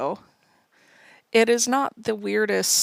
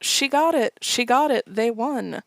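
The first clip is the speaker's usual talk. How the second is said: excited yell; 3 semitones higher, 4 dB louder than usual. Retold or imitated. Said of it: "Bert yells".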